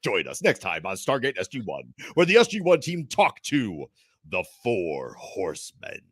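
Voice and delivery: dramatic TV promo sign-off; mock teaser announcer. Host closing the fake episode preview, mock announcer. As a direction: swell in the middle, slow down on the title.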